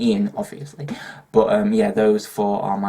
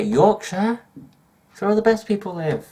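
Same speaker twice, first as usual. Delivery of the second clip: proud; 11 semitones higher than usual. Real, not acted. Proud Yorkshire answer, high voice.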